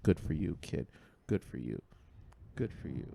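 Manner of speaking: low, soft understatement; low, subdued aside; muted retold remark. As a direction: say it quietly under your breath. Muttered reaction to misbehaving child.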